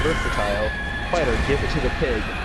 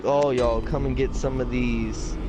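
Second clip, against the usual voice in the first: lightly mocking sarcasm, slow on the end; a hint of a fed-up teacher being sarcastic; teacher mocking the class, mildly sarcastic; slower than usual. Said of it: "He was being sarcastic".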